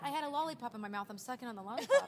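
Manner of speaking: laughing. Real, not acted. Recalling the lollipop in her mouth, laughing. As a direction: giggle through the line.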